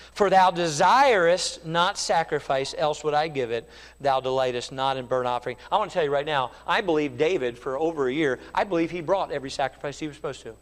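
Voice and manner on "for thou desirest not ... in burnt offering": scripture reading. Acted. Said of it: "Psalm fifty-one".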